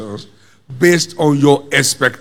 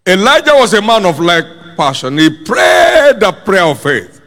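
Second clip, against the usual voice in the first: forceful preaching; 3 semitones higher, 3 dB louder than usual. Real, not acted. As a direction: preach it out, stretching the key words.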